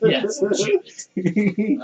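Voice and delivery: slow, sinister villain voice; drawn-out evil whisper-growl. Pretend. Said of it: "that was just my evil voice again".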